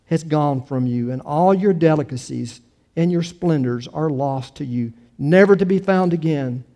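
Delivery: measured, solemn public Bible reading; scripture reading. Acted. Pastor reading scripture to the congregation, measured and declamatory. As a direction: read it out with emphatic phrasing.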